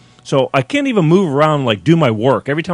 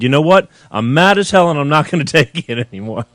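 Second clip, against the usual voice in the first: mock mad as hell. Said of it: "and I said".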